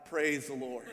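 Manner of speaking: low, soft relieved sigh. Retold or imitated. Rider safe at the cliff edge, sighing with relief. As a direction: breathe it out in relief. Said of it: "and he sighed".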